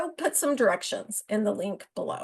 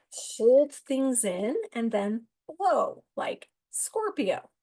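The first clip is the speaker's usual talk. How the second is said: whisper; slower than usual. Acted. Describing bottled-up Scorpio people.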